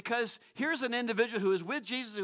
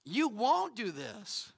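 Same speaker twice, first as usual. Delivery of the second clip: "won't" drawn out with weight; half-speed line leaning hard on "won't"; slow, stressed WON'T; much slower than usual. Acted. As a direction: stretch "won't" before the turn. God's words contrasted with human inability.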